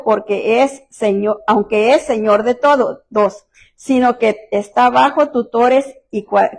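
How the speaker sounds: slow, measured Bible reading; lightly solemn scripture reading. Acted. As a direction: read the verse slowly and deliberately. Reads Gálatas scripture aloud.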